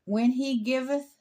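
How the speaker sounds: formal, measured Bible reading; scripture reading. Real, not acted. Resumes the Torah reading.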